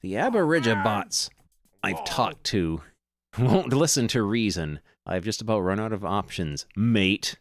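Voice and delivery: lightly hammed Australian accent; Australian adventurer voice. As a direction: play the greasy Aussie digger, mate. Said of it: "I can't keep doing that voice".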